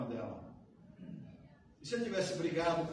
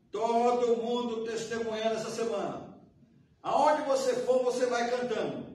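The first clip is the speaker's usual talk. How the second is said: pastor's rallying call; 6 semitones higher, 7 dB louder than usual. Retold or imitated. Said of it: "ele fala pra igreja assim".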